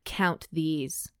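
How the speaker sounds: near-whispered stern order; low-key, whispery instruction; hushed command. A narrator's reading. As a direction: give the order under your breath. Stern character gives an order.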